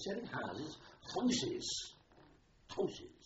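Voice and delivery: mock outrage at the word houses, rising each time; incredulous telling-off. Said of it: "he told me off".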